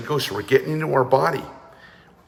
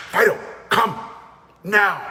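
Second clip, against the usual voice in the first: firm command; 8 semitones higher than usual. Shown as a demonstration. Teacher calls the dog with a firm command. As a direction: call the dog with absolute certainty. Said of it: "You have to go".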